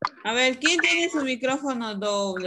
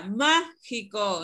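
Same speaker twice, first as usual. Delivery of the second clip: slowly modelled word; much slower than usual. Shown as a demonstration.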